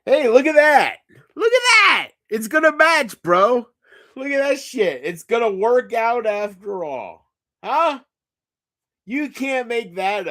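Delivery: high, loud excited yelling; thrilled shout, pitch way up. Real, not acted. Excited at something on screen.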